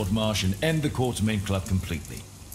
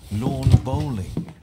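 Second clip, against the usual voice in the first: slow, louder, each word weighed; pointed correction; 3 semitones higher, 5 dB louder, much slower than usual. Acted. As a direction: correct him with relish. Holmes corrects Watson pointedly.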